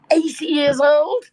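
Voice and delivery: slow, loud, high-pitched disbelief; mock astonishment. Man in queue hearing the customer's age, astonished. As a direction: stretch it out in amazed disbelief.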